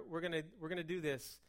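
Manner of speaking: quick, rushed delivery; fast talking. Real, not acted. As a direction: hurry through it. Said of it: "if I sound like I'm going fast".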